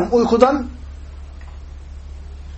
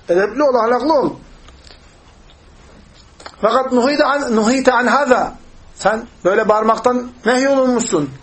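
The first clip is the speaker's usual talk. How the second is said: raised-pitch mock scolding; acted reproach; 5 semitones higher than usual. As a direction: admonish him as a shocked companion would. Companion reproaches Bedouin for shouting.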